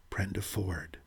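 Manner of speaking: soft breathy whisper. A narrator's reading. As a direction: barely voice the name. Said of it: "the whisper came".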